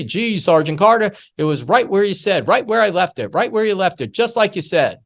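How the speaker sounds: a recruit lightly mimicked telling his sergeant the rifle was found; Gomer Pyle voice. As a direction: chirp it out proudly like a simple recruit. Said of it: "Gomer Pyle walking in two minutes later, say".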